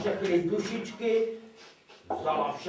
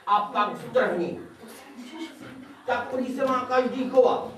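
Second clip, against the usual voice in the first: agitated; 3 semitones higher, faster than usual. Acted. Goblin rants about the king.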